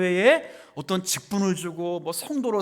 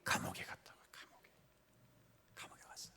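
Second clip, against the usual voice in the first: whispered, fading almost to nothing; very quiet, half-whispered aside; hushed answer; 22 dB quieter, much faster than usual. Real, not acted. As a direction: repeat it softly under your breath. Answers own question in hush.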